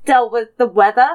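put-on light Canadian accent. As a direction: talk like a Canadian. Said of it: "talk anymore in the Canadian accent".

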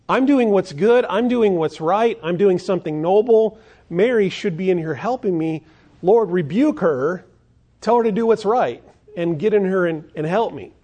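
high, loud indignant insistence; self-righteous demand. Acted. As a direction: demand the Lord rebuke her sister. Acting out Martha's self-righteous demand.

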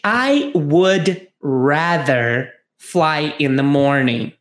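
slow, careful reply; slow model answer. Shown as a demonstration. Teacher reading the passenger's reply slowly. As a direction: draw out each word for learners. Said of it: "o A diz o seguinte".

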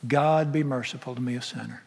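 soft humble plea, fading away; softly pleading sinner's prayer. Pretend. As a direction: beg for mercy, barely heard. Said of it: "Say it like the man in Luke eighteen".

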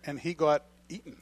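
slight leftover Aussie accent; faint mock-Australian vowels; lingering Australian accent. Real, not acted. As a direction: let a touch of Australian slip in. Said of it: "You still have the Australian accent".

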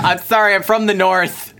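lightly put-on Geordie accent. Apologising for being from the North, mock Geordie. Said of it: "It's this Geordie accent".

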